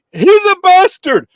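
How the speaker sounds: mock yell of the heckler. Mimicking the heckler yelling at two Jewish men, mock yell. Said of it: "yelling it".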